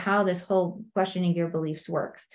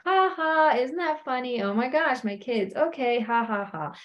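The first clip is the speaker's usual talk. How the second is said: acted laughter; 3 semitones higher than usual. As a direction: laugh off a prank in mock amusement. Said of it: "And we all laugh".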